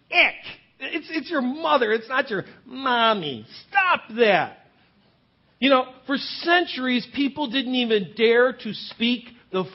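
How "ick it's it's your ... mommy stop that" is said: a squeamish ick then scold; disgusted. Retold or imitated. Pastor reacting to grown women saying Mommy, disgusted. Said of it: "I'm just like".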